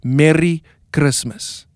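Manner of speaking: "Merry Christmas" with a rolled R, Cape Town style; Cape Town accent. Shown as a demonstration. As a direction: roll the R in "Christmas". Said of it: "you want to roll it".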